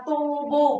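"tobo" with both vowels drawn out; long vowels. Shown as a demonstration. Teacher repeats the answer for learners, long vowels in "tobo". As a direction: hold each o in "tobo". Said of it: "Cả hai đều có trường âm".

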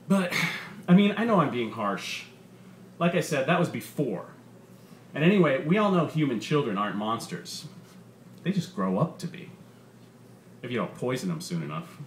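lively, punchy comedian working the crowd; stand-up comedian. Acted. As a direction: sell the bit to a packed club. Comedian's stand-up set in story.

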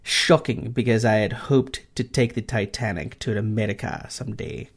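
a weak stab at an Irish lilt; lightly put-on Irish accent. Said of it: "This is a terrible Irish accent".

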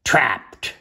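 punched, excited chapter title; sudden dramatic exclamation; exclaimed. A narrator's reading. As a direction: read it with an exclamation point. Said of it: "That indicates some excitement".

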